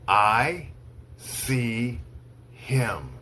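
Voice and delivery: slow, one word at a time with long pauses; slow dictation. Shown as a demonstration. Teacher reads to students for dictation, slow, word by word. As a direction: read it word by word so they can write. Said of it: "I'll say each sentence slowly three times".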